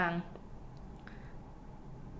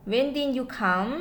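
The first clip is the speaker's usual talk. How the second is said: slow model sentence; 4 semitones higher, much slower than usual. Shown as a demonstration. Teacher to students giving an example, very slow. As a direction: read it out slowly for learners to copy. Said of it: "ตัวอย่าง".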